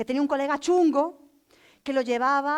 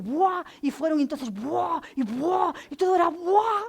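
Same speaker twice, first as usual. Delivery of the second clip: imitating the teen's buah; 4 semitones higher, 3 dB louder than usual. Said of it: "renuncié a traducir el "buah".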